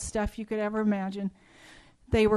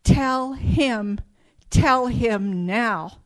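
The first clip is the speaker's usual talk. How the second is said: urgent inner voices; 6 dB louder, much slower than usual. Retold or imitated. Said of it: "I heard these voices say".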